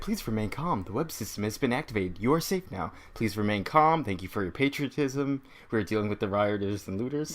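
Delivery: softly imitated public-address recording; automated announcement voice. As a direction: recite it like a calm recorded notice. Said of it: "Automated voice telling the city".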